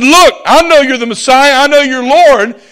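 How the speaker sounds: preacher acting out a reproachful complaint; Martha confronting. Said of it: "And here Martha said".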